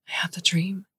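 hushed whisper; quiet whisper. Acted. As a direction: whisper it, haunted. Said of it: "she says quietly".

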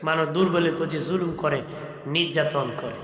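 ordinary talk, nothing marked

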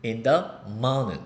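"in the morning" met weggeslikte t, als "in da mane"; American flap T. Shown as a demonstration. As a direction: laat de T in "in the morning" bijna wegvallen. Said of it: "이런 식으로 발음이 들립니다".

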